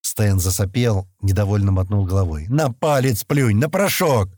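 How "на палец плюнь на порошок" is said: slow, higher-pitched cross command; understated irritation, words spaced out; angry. A narrator's reading. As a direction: order it with exasperation. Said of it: "сердито сказал он".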